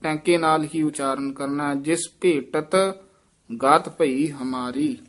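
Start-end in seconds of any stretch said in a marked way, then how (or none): 1.7-5.0 ਭੇਟਤ with a hard t, no dh sound; correct pronunciation. Shown as a demonstration. Teacher correcting the student's ਭੇਟਤ, hard t. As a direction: say ਭੇਟਤ with a clean tenka t. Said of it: "ਭੇਟਤ ਢੱਡਾ ਨਹੀਂ ਲਾਉਣਾ, ਟੈਂਕੇ ਨਾਲ".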